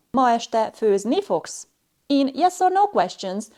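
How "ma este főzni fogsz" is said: slow "Ma este főzni fogsz", high on the end of "főzni", falling on "fogsz"; rise-fall question intonation. Shown as a demonstration. Teacher giving a yes-no example, rise-fall intonation. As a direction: peak before the last syllable of "Ma este főzni fogsz", then drop. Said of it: "high rise in pitch is found on the penultimate syllable".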